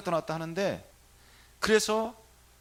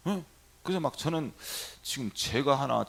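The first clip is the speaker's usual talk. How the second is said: ordinary talk, nothing marked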